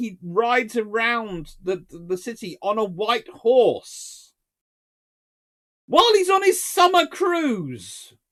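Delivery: booming, shrill, high shout rising in pitch. Telling the story of the Kaiser's visit to Tangier, shouting. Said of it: "Sorry, I'm shouting".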